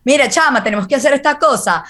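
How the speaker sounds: put-on light Venezuelan Spanish accent, quick. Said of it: "I kinda try to do the Venezuelan accent".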